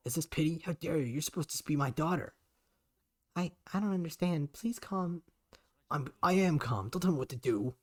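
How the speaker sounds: rising anger. Acted. Father raging at his daughter, loud outraged. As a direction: let the fury build.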